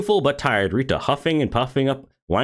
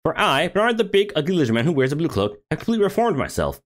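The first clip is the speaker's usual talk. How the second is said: pompous lizard man; 4 semitones higher than usual. Acted. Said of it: "I won't hear these lies against my character".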